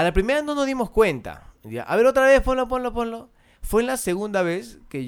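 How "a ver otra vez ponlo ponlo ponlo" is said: high, loud retold clamour for a replay; eager demand. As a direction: imitate friends urging, pitched way up.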